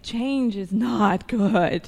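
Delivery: drawn out slowly through a laugh; slow amused chuckle on each word. Real, not acted. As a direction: laugh your way through the words. Wry joke about alcoholics and change.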